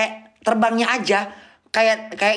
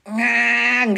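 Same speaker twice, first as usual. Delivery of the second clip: engine noise imitation; 3 semitones higher than usual. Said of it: "kayak becak mesin mesinnya".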